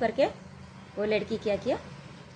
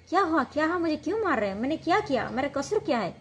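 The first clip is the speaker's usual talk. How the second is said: higher-pitched pleading as she is dragged off; retold frightened cry; 5 semitones higher than usual. Wife being dragged by the hair cries to her husband, a retold high frightened plea. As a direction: mildly voice a beaten wife crying out, confused. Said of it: "वो चिल्ला रही थी".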